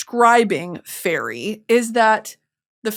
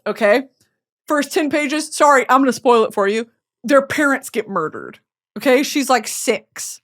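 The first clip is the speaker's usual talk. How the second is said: ordinary talk, nothing marked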